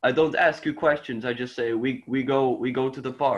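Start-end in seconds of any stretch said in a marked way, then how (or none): 1.7-3.4 Dutch accent. Shown as a demonstration. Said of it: "people talk like this".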